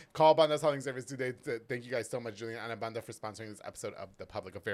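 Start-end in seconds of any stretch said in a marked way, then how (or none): 0.1-1.3 loud call to action. Acted. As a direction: shout the pitch out.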